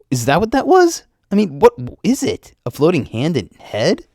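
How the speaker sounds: high, loud burst of disbelief; panicked questions, voice leaping up; freaked out. Acted. Panicked questions after first monster encounter.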